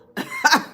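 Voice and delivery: high, loud burst of laughter; one quick high cackle; short laugh. Real, not acted. Amused at their own "Oh, well", short high laugh.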